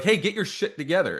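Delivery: high-pitched mock reprimand; imitated scolding. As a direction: act out a sharp talking-to. Acted scolding before a smack.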